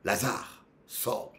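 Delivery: softly spoken order; simple quiet command. Retold or imitated. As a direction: give the command without shouting. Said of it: "il a dit seulement un mot".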